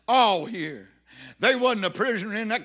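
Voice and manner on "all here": All hit hard, then falling away; stress on All. Shown as a demonstration. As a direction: punch the word All. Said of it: "underline that word all".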